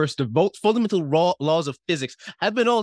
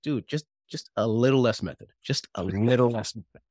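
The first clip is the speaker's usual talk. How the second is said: gentle director notes. Retold or imitated. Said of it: "looks upon me and says".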